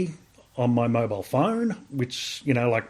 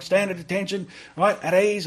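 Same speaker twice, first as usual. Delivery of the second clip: higher, crisp drill-ground orders; sergeant major command; 7 semitones higher than usual. Retold or imitated. RSM ordering the soldier to attention, commanding. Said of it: "He, he just had a big voice".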